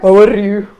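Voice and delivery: light attempt at a Welsh accent. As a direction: say it with a hint of Welsh lilt. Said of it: "Was that a Welsh accent".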